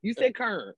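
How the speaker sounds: "Kern" squashed into one syllable; mimicked Baltimore pronunciation. Daughter teasing mother's slip, "Kern" as one er-syllable. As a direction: draw out "Kern" with an er vowel. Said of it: "fall back into her accent".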